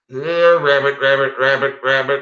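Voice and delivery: high sing-song call to a rabbit. Pretend. Man calling his pet rabbit, high sing-song. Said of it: "I can do a rabbit call".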